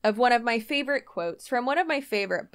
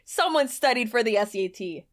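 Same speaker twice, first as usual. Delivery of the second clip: scoffing, disbelieving tone; incredulous. Shown as a demonstration. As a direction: sound amazed they would think that. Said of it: "in an incredulous way".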